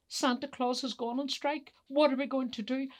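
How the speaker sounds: upset elf. Acted. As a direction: break the bad news in a fluster. Upset elf tells the others.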